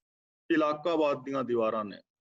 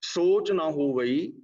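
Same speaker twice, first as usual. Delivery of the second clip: slow ਸੋਚ ਨਾ ਹੋਵਈ, rising, then a rest; pause after ਹੋਵਈ; slower than usual. Shown as a demonstration. Preacher marking the verse pause after ਹੋਵਈ, slow and measured. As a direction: chant ਸੋਚ ਨਾ ਹੋਵਈ slowly and stop there. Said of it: "ਇੱਥੇ ਵਿਸ਼ਰਾਮ ਆਏਗਾ".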